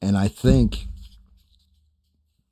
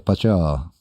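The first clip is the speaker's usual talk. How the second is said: Cajun accent. Shown as a demonstration. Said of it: "If I'm talking with a Cajun accent".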